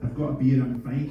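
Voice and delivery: mock posh Edinburgh voice; posh Edinburgh accent. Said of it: "you said in your posh Edinburgh voice".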